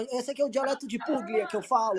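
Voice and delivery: lightly put-on Italian charm; Italian accent. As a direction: fake Italian accent in Portuguese. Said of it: "falando com sotaque italiano em português".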